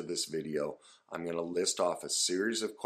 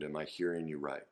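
gentle check-in; 3 semitones lower, 5 dB quieter than usual. Shown as a demonstration. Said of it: "So that would look something like".

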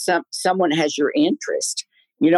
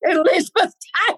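excited echo; 14 semitones higher, faster than usual. Real, not acted. Excited echo of famous name.

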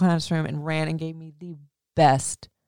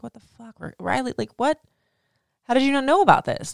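inner devil voice; 7 semitones higher than usual. Retold or imitated. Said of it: "my little devil showed up on my shoulder".

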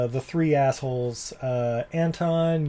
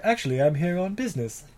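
smug; 5 semitones higher than usual. Retold or imitated. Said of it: "He's like".

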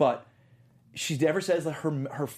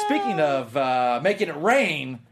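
mock announcer segue; 5 dB louder, slower than usual. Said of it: "segue announcement".

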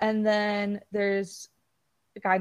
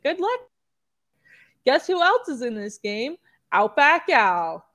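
mock Australian game voice; 3 semitones higher, 5 dB louder than usual. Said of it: "worst Australian accent I've ever heard".

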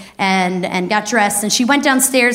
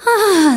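higher airy sigh of bliss; blissful "ah"; 9 semitones higher, 3 dB louder than usual. Acted. Comedian showing hallucinogenic warmth coming over you, blissful sigh. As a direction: let out an awed "ah". Acts out a trip's deep moment.

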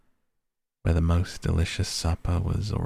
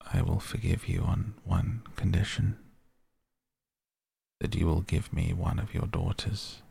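anger easing, slightly subdued; less furious tone. A narrator's reading. The beast sets the merchant one condition, in a less furious tone. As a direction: state the bargain with restrained sternness. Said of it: "said in a less furious tone".

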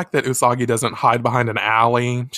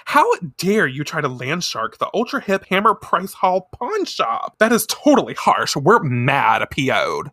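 put-on indignant valley girl; 3 semitones higher than usual. Naruru scolding the villains, huffy valley-girl. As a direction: scold like an offended gyaru. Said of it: "Naruru says".

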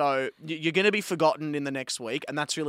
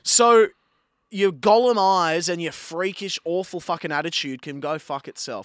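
angry insult; 4 dB louder than usual. Real, not acted. Insulting David.

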